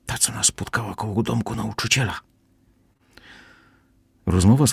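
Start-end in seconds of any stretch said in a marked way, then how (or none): 0.1-2.2 hushed, breathless whisper. A narrator's reading. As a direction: whisper it so she can't hear. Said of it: "szepnął Tel".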